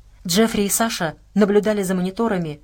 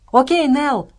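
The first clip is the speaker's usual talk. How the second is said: high, loud happy call; joyful exclamation; 6 semitones higher, 5 dB louder, slower than usual. A narrator's reading. Hender greets Nell upstairs, exclaiming joyfully. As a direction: call out happily, raised in pitch. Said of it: "радостно воскликнул Хендер".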